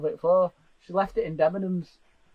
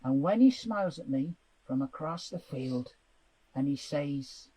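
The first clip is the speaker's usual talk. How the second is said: dramatic audition reading; 2 semitones lower, slower than usual. Pretend. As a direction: read it like a soap audition. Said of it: "That was my audition for the Archers".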